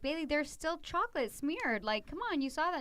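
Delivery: mock scolding of daughter over dirty dishes; exasperated mom. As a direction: point out the smear, mildly fed up. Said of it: "and I'll be like".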